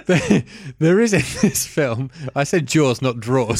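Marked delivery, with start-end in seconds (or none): 0.1-2.1 reading a review in a put-on French accent. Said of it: "warm up the French accent again".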